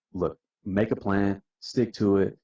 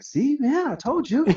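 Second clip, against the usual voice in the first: much higher, gleeful and teasing; told-you-so; 3 dB louder than usual. Retold or imitated. Gloating to the older guy, high and teasing. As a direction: gloat playfully to the doubters.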